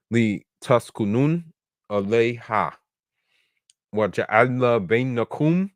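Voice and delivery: measured Arabic scripture recitation; Quran recitation. Acted. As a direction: recite the verse aloud in Arabic.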